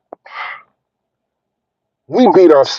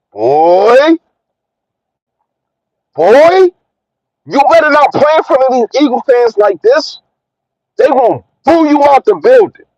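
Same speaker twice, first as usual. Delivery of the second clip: scolding; 5 semitones higher than usual. Real, not acted. Scolding the coach.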